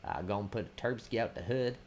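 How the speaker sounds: lightly put-on Florida man voice; playfully imitating a Florida man; mock Florida man. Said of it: "I will not become a Florida man".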